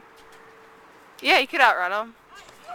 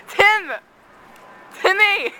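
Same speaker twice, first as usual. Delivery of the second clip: calling out; 7 semitones higher, much slower than usual. Real, not acted. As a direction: call up to the window. Calling to friend at window.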